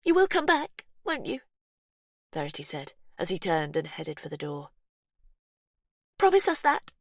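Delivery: desperate plea. Acted. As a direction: beg him to promise. Sister pleading as he leaves.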